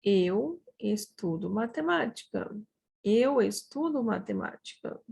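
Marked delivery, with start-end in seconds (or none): 0.0-2.6 unhurried, words set apart; measured model sentence. Shown as a demonstration. Teacher shows how we say it, in measured model delivery. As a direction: give each word room for learners.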